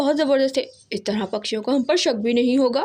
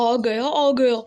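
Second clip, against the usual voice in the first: excited; much slower than usual. A narrator's reading. Excited crow announcing his idea.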